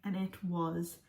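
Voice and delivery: breathless, catching her breath between phrases. Real, not acted. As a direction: talk while still winded. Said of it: "Why am I so out of breath?".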